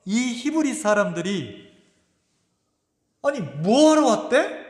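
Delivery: retelling the generals' outraged challenge; indignant demand. Retold or imitated. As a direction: press the king in disbelief. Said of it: "이렇게 따진 거예요".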